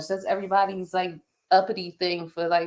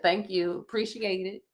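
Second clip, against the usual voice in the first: lightly sarcastic, understated thank-you; 7 dB quieter than usual. Shown as a demonstration. Customer shows how she thanked unhelpful staff, sarcastic. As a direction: thank them drily, tailing off softer. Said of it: "I was being sarcastic".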